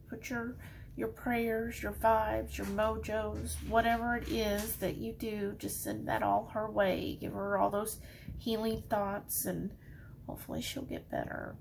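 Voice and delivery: soft, real teary plea, fading at the end; tearing up. Real, not acted. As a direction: hold back tears as you softly ask for prayers. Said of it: "Sorry I'm tearing up".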